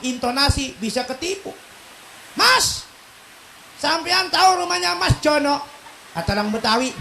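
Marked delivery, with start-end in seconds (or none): 2.3-5.6 high-pitched Javanese asker; Javanese accent. Acted. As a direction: ask directions with Javanese intonation. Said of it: "dengerin tuh orang Jawa". (logat Jawa bertanya alamat)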